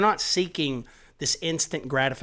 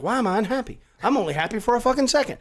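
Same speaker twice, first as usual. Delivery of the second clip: mocking whine; 8 semitones higher, 4 dB louder, faster than usual. Mocking unhappy people.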